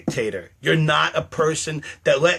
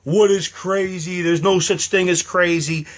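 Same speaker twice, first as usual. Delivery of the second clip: mock quote; 3 semitones higher than usual. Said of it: "people that says".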